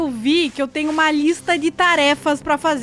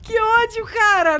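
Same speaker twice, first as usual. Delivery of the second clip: shaken outburst; 6 semitones higher, slower than usual. Real, not acted. Reacting to a jump scare.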